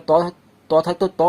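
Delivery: ت مفخم بشفاه مستديرة; قل "ত" بفم مستدير مفخم; round-mouthed ta. Shown as a demonstration. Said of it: "মুখ গোল করে পড়তাম".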